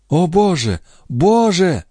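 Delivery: put-on young wife, mild anguish; anguished cry. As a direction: cry out to God.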